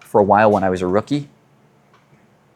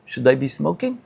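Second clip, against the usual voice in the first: mock Russian-accented question, slightly raised; horrible Russian accent; 4 semitones higher, 4 dB quieter than usual. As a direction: imitate the Russian neighbor, lightly. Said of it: "I'm just doing a Stanley impression".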